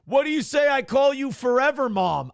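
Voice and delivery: high, hollered come-on; catcall. Acted. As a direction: call it out high. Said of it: "Aaron's cat call".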